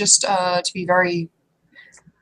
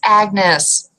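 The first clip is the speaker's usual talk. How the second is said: troll woman voice; 3 semitones higher, slower than usual. Acted. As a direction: greet him with light delight. Troll woman introduces herself.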